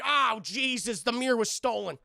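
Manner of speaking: hammed-up shock at a discovery; mock alarm. Acting out discovering the theft.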